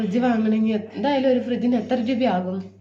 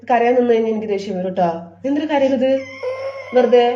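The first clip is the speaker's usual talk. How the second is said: stern scolding; 4 dB louder, faster than usual. Real, not acted. Mother scolds crying son.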